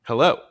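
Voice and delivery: HELLO with a loud second syllable; unstressed then stressed. Shown as a demonstration. Teacher gives an iamb example, second syllable of HELLO stressed. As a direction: punch the end of HELLO. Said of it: "An iamb is unstressed stress".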